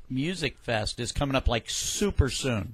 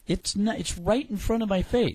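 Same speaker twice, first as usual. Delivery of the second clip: protesting in a raised, high pitch; animated high voice; 8 semitones higher than usual. Real, not acted. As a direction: let the voice jump high as you object. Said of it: "your voice goes high".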